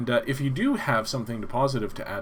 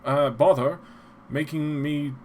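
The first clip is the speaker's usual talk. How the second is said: lightly voiced old-time radio announcer; a hint of a vintage radio host; old-timey radio announcer; 4 semitones higher than usual. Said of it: "I sound like an old-timey radio announcer".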